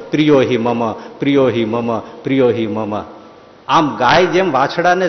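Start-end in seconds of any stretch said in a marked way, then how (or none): 0.1-3.0 tender divine voice. Acted. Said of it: "ભગવાન તરત બોલે".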